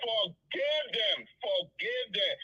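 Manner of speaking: soft, subdued plea after breaking down; emotional. Real, not acted. Caller begging Seku to forgive his abusers, emotional and subdued. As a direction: plead quietly, with real emotion. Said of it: "Don't be emotional".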